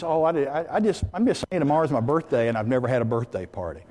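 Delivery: halting, then quick mumbled explanation; defensive backing down. Acted. Woman backing down after her friend scoffs, defensive. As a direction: stumble into it and shrink away.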